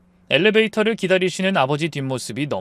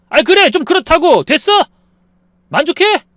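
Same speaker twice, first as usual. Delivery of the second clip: furious shout; 13 semitones higher, 10 dB louder than usual. Acted. 남편이 폭발해 소리침.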